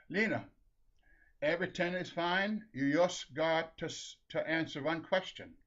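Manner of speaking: measured instructions with a Norwegian lilt; Saint Peter, Norwegian accent. Acted. Saint Peter stops Lena at the gates, Norwegian accent. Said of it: "the Saint Peter has a Norwegian accent".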